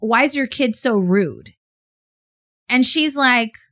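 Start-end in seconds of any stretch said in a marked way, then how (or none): 0.0-1.5 mock sharp snap, curt and irritated. Retelling what a lady said to the speaker's stepmom, imitating someone snapping. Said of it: "the lady snaps and says".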